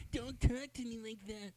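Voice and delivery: high, offended comeback; indignant retort. Retold or imitated. Host voices Hal snapping back at Sinestro, mock-offended. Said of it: "And he's like".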